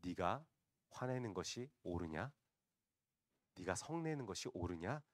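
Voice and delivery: quiet, measured question as God; lightly voiced God, softly challenging. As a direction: ask it quietly, pausing. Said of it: "하나님께서 말씀하십니다".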